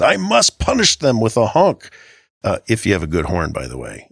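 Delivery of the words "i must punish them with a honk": much higher, mock-righteous voice; mock inner voice. Mocking a road-rage driver's urge, mock-pompous. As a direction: ham up the angry driver's thought. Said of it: "the inclination is".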